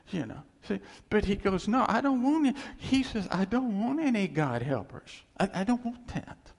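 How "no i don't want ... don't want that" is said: God refusing. Pretend.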